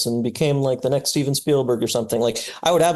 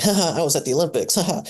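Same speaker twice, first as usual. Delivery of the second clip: mock humble brag; 4 semitones higher, faster than usual. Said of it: "like, humble brag".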